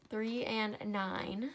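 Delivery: each word drawn out slowly to make it stick; "Three and nine" stretched out, carefully; slow, deliberate correction. Shown as a demonstration. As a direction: spell it out slowly for the class. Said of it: "no, three and nine".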